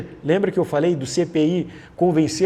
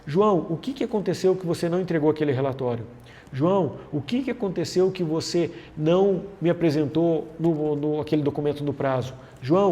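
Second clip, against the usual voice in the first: softer, even, non-accusing ask; calm open question; 3 dB quieter than usual. Shown as a demonstration. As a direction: gently ask what happened. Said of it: "Veja que diferente se eu dissesse".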